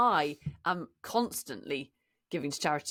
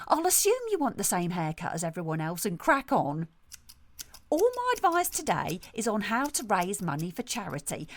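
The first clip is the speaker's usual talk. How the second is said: self-satisfied salon owner, lightly played; lightly voiced brusque hairdresser. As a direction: play a breezily tactless hairdresser. Sketch as salon owner Sue.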